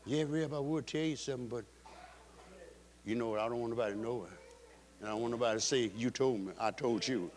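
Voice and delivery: low, confidential gossip voice; mock hushed tattling, voice kept down; imitating church whispering. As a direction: drop low, as if passing on a secret. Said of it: "you got whispering on in the church".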